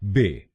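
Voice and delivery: बे said as a short "be"; बे spoken slowly and clearly as one syllable; syllable demo. Shown as a demonstration. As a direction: say बे like "beh". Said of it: "हम बोलेंगे बे".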